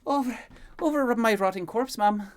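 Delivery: high, loud indignant protest; indignant servant. Acted. Maid to the queen after rushing, indignant loud protest. Breathless Elaine answers the queen.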